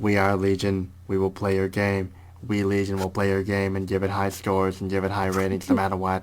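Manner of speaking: low, soft, even robot drone; Legion robot voice. Pretend. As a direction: drone it like a synthetic hive mind. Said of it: "I was trying to quote Legion from Mass Effect two".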